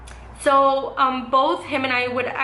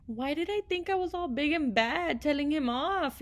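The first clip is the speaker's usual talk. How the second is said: much softer, musing half to herself; quiet self-mocking aside; 10 dB quieter than usual. Real, not acted. Vlogger softly laughing at her teenage self, hushed. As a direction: drop the voice, a little embarrassed at your past self.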